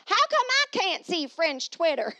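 high, loud, slow mock French accent. Shown as a demonstration. Repeating her question to viewers in a mock French accent.

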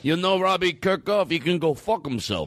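slow, swaggering tough-guy voice, lightly done; tough guy Ari. Retold or imitated. Comic mocking a fellow comic as a brawler, slow tough-guy swagger. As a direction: play a boastful street tough, a hint of a drawl. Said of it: "you shouldn't really talk like that".

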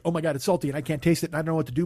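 fast, run-together imitation of fretting; mock panic. Imitating the baker who can't taste, mock panic. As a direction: rattle it off in mild pretend panic. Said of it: "so then she panics".

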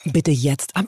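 etwas tiefer, ruhige Navi-Ansage; Navi-Stimme. Pretend. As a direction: sag es wie ein Navigationssystem. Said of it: "Kannst du mal sowas sagen wie „Wenden, bitte". (ruhige Navi-Ansage)

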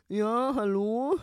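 very slow, drawn-out cold-caller voice; slow mock customer-service caller; imitated phone caller. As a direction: put on a dragging, sing-song caller voice. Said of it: "der hat wirklich wie folgt angerufen".

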